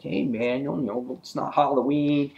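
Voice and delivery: lightly voiced sixties cops; goofy cops. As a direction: play the cops as casual and jokey. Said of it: "the cops are like".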